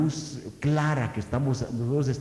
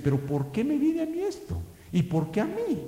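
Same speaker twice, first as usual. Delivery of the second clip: whining complaint; 11 semitones higher than usual. Retold or imitated. Congregants' complaint voiced.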